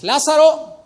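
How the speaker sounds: high, loud commanding call; loud cry. A narrator's reading. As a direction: call the dead man out in a great voice. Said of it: "clamó a gran voz".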